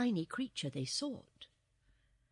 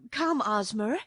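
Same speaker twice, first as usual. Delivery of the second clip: a touch of anxious urgency; louder, mildly worried call; 2 semitones higher, 7 dB louder than usual. A narrator's reading. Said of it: "she said anxiously".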